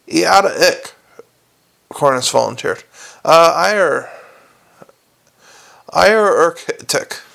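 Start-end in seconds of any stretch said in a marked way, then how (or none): 0.1-0.9 consonants dropped, gaping mouth; open-mouthed gargoyle. Acted. 3.2-7.2 consonants dropped, gaping mouth; open-mouthed gargoyle. Acted.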